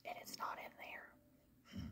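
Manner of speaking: slow dejected whisper; hushed, slow letdown. Real, not acted. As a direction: breathe it out under her breath. Disappointed aside about missing scent.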